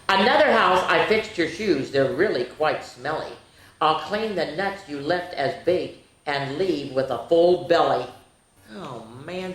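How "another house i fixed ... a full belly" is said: cheeky leprechaun rhyme. Acted. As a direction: read the leprechaun's boasts to the kids, playfully. Reads leprechaun picture book aloud.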